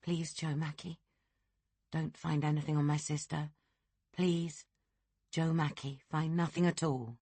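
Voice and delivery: a hushed private prayer for her sister; silent prayer. Acted. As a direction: plead inwardly, barely voicing it. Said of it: "she prayed to herself".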